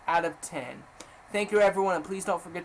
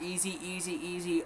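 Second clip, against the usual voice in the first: soft; 7 dB quieter than usual. Shown as a demonstration. Chanting easy parts of game.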